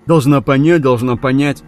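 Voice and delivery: mock Tom's words in a cracking, mimicking voice; cracked sneering mimicry; mocking, voice breaking. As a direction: parody him with a breaking voice. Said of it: "срывающимся голосом передразнила она его".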